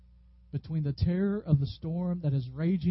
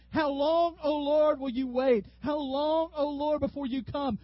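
high, raised, crying appeal to heaven; impassioned lament; 9 semitones higher than usual. Acted. David in the Psalms to the Lord, impassioned lament. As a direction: cry out to God for an answer. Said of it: "you see David over and over again".

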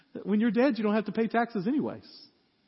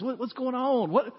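incredulous David; 5 semitones higher than usual. Acted. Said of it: "he comes out and he says".

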